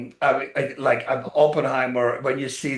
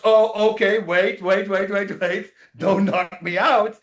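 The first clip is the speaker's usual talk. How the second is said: mock alarm; 4 semitones higher, slower than usual. The Rock backing off, alarmed.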